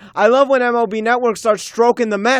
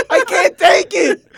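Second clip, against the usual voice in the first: higher, laughing through the words; exasperated laugh; 9 semitones higher, slower than usual. Real, not acted. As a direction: laugh helplessly as you say it.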